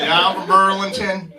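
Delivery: imitating his cowboy accent from Burlington; lightly hammed-up cowboy accent; mock cowboy accent. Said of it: "they don't talk like that in Burlington".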